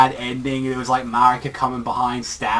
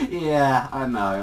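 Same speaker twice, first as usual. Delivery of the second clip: amused, pitched-up opening with a chuckle; imitated laughing reply; 3 semitones higher, slower than usual. Boy admitting he knows her flaws, laughing fondly. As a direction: laugh first, then settle into the words. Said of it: "he just starts laughing".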